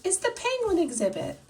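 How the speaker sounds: hammed-up barker welcoming the crowd; lion zookeeper announcing. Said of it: "says Mister Lion".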